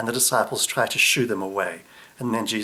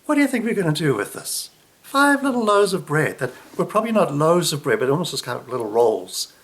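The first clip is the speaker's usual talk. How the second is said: mock exasperation; 3 dB louder than usual. Disciples scoffing at Jesus over the small food, mock incredulous. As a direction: scoff at the tiny lunch, a little fast. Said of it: "There's almost a kind of a like".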